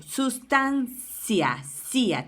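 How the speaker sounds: SUSTANCIA stretched slowly, split before the final CIA; syllable by syllable. Shown as a demonstration. Teacher shows pupils the final sound, sustancia split by syllable. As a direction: say sustancia in slow pieces, then repeat cia alone. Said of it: "tiene ese sonido silábico".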